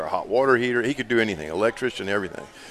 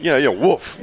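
mock bark; 3 semitones higher than usual. Shown as a demonstration. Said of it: "what was the bark like".

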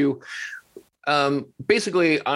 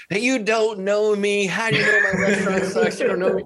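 indignant; 5 semitones higher than usual. Retold or imitated. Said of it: "I get messages".

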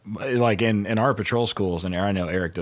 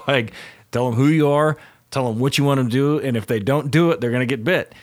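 firm, mildly raised instructor voice; raised lecturing voice; 4 semitones higher than usual. Retold or imitated. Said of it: "and I yell at guys all the time".

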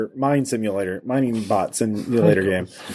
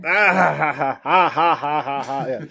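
maniacal laughter. Pretend. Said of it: "Just maniacal laughter".

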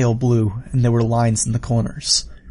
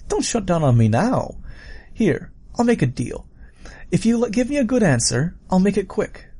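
higher, animated killer voice; villain offering a deal; 7 semitones higher than usual. Acted. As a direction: coax them into your grim bargain.

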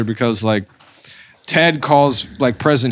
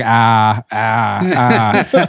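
robot groans; 4 semitones lower, much slower than usual. Retold or imitated. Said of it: "you just hear the robot like".

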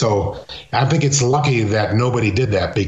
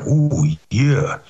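Macho Man. Retold or imitated. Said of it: "And Macho Man".

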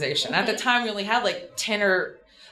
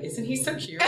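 giggly crush; 4 semitones higher, 6 dB quieter than usual. Retold or imitated. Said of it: "And I was like".

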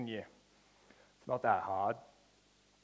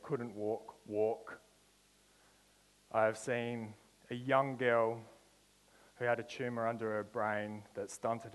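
preaching. Acted. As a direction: build faith, word by word. Preaching testimony of miracles.

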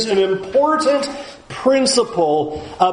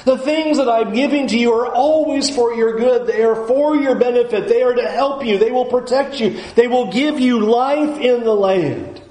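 higher, insistent voice of assurance; God correcting; 5 semitones higher than usual. Acted. God correcting the people's picture of random laws, insistent. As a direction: press each promise home, pitched up. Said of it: "He says".

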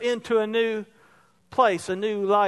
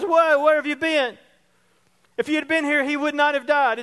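raised, reproachful sister's cry; exasperated sister; 4 semitones higher than usual. Retold or imitated. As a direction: pitch it up like a grieving, blaming sister. Martha runs out, reproachful.

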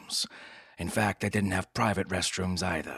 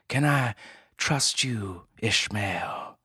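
pleading dame; 4 semitones higher, slower than usual. Acted. Client pleads.

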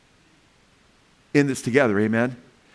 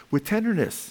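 tender; 6 semitones higher, 4 dB quieter than usual. Shown as a demonstration. Answers how to correct people.

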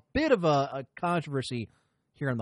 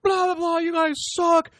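high, loud angry customer rant; heated rant; 13 semitones higher, 6 dB louder than usual. Retold or imitated. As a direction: let it rip like an irate caller yelling at corporate. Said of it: "the heated".

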